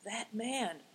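hushed, secretive whisper; soft, wary undertone. A narrator's reading. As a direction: say it very softly, not to be overheard. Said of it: "whispered Big Tiger".

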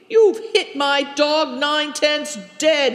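dog owner shouting from the far bank; angry shout. A narrator's reading. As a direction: yell at the thrower over the hurt dog. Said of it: "he shouted".

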